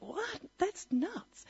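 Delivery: high, startled what; a sharp, high burst of disbelief; incredulous. Retold or imitated. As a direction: scoff at the claim in disbelief. Shocked retort to the claim.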